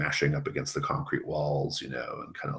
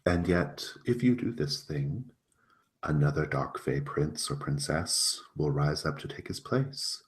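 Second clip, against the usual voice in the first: persuasive fae prince; 3 semitones higher than usual. Acted.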